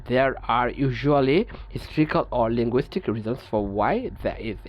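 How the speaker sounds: each English word read out slowly and evenly; measured, deliberate reading of a textbook rule. Acted. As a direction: dictate the rule slowly to the class.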